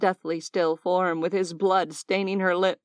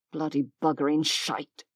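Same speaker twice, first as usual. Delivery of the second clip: groaned; 4 semitones lower than usual. Acted. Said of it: "he groaned".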